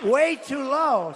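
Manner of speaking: drawn out, very slow; slow, heavy repeat of a complaint; slow emphasis. Retold or imitated. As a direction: stretch each word slowly. Repeats slowly.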